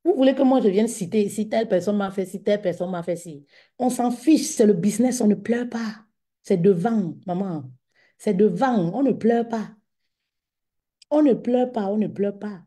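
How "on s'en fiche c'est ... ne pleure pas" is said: louder, punchy coach chant; rally them: no crying in business; firm rallying slogan. Real, not acted. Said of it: "motivational slogan".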